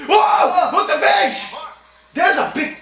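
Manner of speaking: high, startled whoa; excited outburst. Real, not acted. Player spotting a fish on the line, excited. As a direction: blurt it out in sudden excitement.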